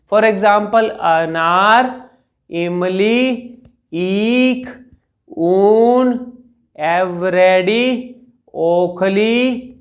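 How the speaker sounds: each word drawn out slowly and clearly; patient teacher spelling out words slowly; slow clear demo words. Shown as a demonstration. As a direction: model every vowel word slowly for the class. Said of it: "normal speed में आप high volume में बोल के देख लो".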